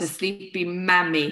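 "Sleepy Mammy" said slowly in an Irish accent. Shown as a demonstration. Spelling out the business name for listeners, very Irish accent on "Mammy". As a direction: give "Mammy" a very Irish sound. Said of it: "very Irish".

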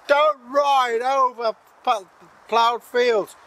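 slow, high, loud hag voice; hag's curse. Acted. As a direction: rasp out a witch's warning. Hag shouting at fleeing man.

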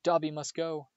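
high, breathless frightened elf; terrified. A narrator's reading. Elf hears footsteps, terrified and breathless. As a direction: gasp it out in fear. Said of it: "breathed the elf, terrified".

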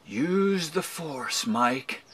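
very slow, hushed mystical voice; inner mentor voice. Retold or imitated. Inner voice urging him to try, hushed mentor. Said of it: "somewhere deep down inside of me, I can hear it".

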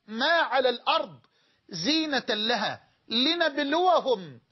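melodic Quranic chant; Quran recitation. Acted.

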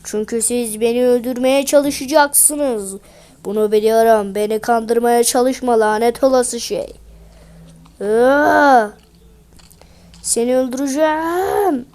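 distrustful golem warning them off; lightly voiced golem, angry; ice golem.

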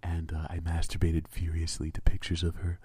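host a fake show like it's ASMR; mock magazine host voice. Hosting his joke show to his co-host, hammed-up breathy host voice. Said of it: "Every time you make that voice".

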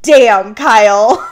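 loud, awed damn, Kyle; impressed damn. Real, not acted. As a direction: react to a savage burn. Impressed reaction to a burn.

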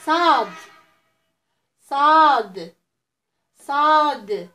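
صاد called out loudly; loud model letter. Shown as a demonstration. Teacher drilling children on the letter. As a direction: belt out صاد for the class to repeat. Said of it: "نعاودو".

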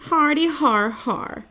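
slow, high fake laugh in words; sarcastic mock laugh. A narrator's reading. Stink to teasing friends, sarcastic mock laugh. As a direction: spell out the laugh, not amused.

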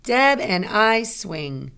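slow, firm telling sentence, "swing" coming down; statement intonation. Shown as a demonstration. Teacher shows pupils it's just telling us something, statement. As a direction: state it deliberately and loudly, no lift on "swing". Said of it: "That's a statement sentence".

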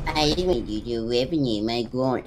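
mocking imitation. Mocking friend's words back.

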